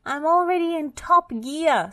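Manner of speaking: high, loud strained machine voice; spluttering. Acted. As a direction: splutter it out while revving hard. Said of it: "spluttered Muck".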